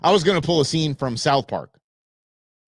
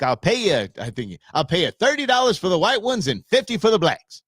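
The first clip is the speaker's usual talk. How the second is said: lightly put-on Southern accent; mock Southern accent; 4 semitones higher than usual. Cartoon character offering money for players, mock Southern accent. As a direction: imitate a Southerner with a hint of the accent. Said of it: "he's talking in a Southern accent".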